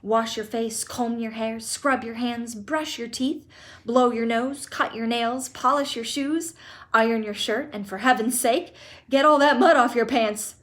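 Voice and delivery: loud, eager rattle of orders; excited orders. Acted. Grandpa Joe ordering Charlie to get ready, loud and eager. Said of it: "shouted Grandpa Joe".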